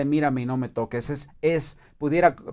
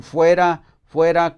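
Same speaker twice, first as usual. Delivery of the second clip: louder crowd shout, "Fuera" hurled out; 3 semitones higher, 7 dB louder than usual. Retold or imitated. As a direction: shout it like an angry mob. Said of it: "ellos gritaron". (grito de la multitud, más fuerte)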